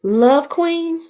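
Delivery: a disbelieving Love Queen?; surprised. Real, not acted. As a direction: ask it again, amazed.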